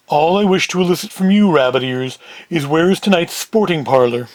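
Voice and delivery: lightly deepened character voice; a hint of a formal heavy. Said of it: "Big Sam in the deeper voice".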